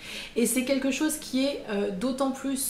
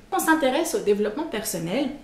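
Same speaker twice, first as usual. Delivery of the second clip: ordinary talk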